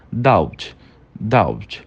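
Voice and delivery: "Doubt" with the B swallowed before the T; B silenciado. Shown as a demonstration. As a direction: say "Doubt" with only a trace of B. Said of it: "só que ele é silenciado". ("Doubt" com um Bzinho quase mudo)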